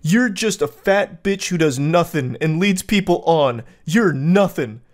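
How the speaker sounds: rising angry rant. Acted. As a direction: snap it out, building to a shout. Acting out insulting texts.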